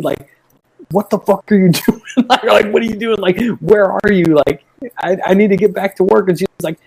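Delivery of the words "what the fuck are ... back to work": higher, exasperated texting voice; retelling an annoyed text with attitude. Retold or imitated. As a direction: rant at her like she's wasting your time. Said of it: "with the attitude".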